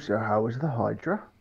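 quiet whispering. Voicing Barnabas quietly asking another character about the Hydra: whispering. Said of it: "Barnabas kinda whispers to him".

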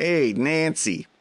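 poor put-on Chicago accent, slightly high-pitched. Joking about an actor's roles: bad Dennis Franz impression. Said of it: "I don't do a good Dennis Franz".

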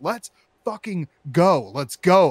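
loud, furious, angry screaming. Retelling being stuck in a line of cars for food, reenacting screaming in the car. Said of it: "I'm starting to scream in my car".

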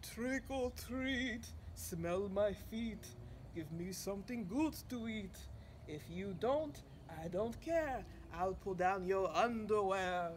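theatrical vampire count voice, fully committed. Froggy, dressed up in a black cape and wig, speaks in his best Dracula voice. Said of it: "and said in his best Dracula voice".

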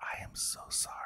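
very quiet, soft, breathy whisper. Retelling what someone whispered into one's ear: imitating a whisper. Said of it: "whispers into my ear".

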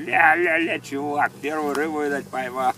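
mock teasing jeer through laughter, high. Telling a childhood fishing story, imitating men mockingly laughing. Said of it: "так как начали угорать такие".

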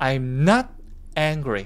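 strong, hard stress on the word not. Korean English lesson on negative sentences: strong stress on not. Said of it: "보통 강세를 not에 강하게 넣어주시는 편이 좋습니다".

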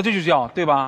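normal talking voice

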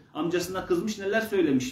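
ordinary talk

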